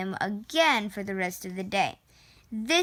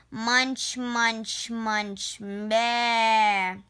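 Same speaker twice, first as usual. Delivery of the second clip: chewing sheep; much slower than usual. Acted. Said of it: "the sheep protested".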